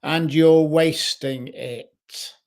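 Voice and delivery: a restrained scream, drawn out and emphatic; mock scream. Inner voice screaming at a person wasting their life, loud and slow but held back. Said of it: "louder and louder until it's screaming".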